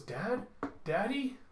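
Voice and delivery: put-on high, rising child's call; small high questioning voice; worried child calling. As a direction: call anxiously for a missing dad. Child looks for father after dive.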